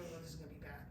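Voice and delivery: hushed, worried murmur to herself; quietly dreading what comes next; fearful inner thought. Retold or imitated. Traveller at checkpoint, hushed and worried.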